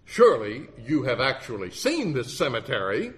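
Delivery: mildly huffy lawyer; a touch of indignant cross-examiner; huffed. Retold or imitated. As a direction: huff it in mock exasperation. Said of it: "huffed the lawyer".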